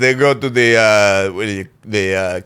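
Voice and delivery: lightly voiced Greek grandpa; a grandpa griping about blackjack, lightly Greek; Papu's Greek accent. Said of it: "listening to Papu".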